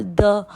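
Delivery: द with no air, like Urdu दाल; unaspirated द; plain de. Shown as a demonstration. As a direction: model द without breath. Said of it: "कोई हवा नहीं निकलेगी".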